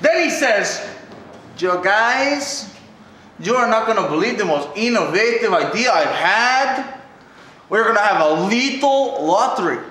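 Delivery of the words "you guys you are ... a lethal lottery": lower, put-on German accent; mock German commissioner voice. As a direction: play Schmidt with a German accent. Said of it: "It's tough to do his German accent".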